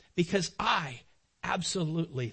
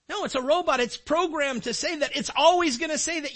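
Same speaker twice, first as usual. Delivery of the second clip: louder and higher insistence; raised preacher voice; emphatic preaching; 9 semitones higher, 6 dB louder than usual. Real, not acted. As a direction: drive the point home loud.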